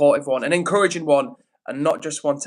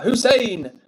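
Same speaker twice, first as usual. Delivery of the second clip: raised, higher-pitched call; 7 semitones higher, 4 dB louder than usual. Real, not acted. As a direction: call out to someone in the chat. Calling someone in the chat.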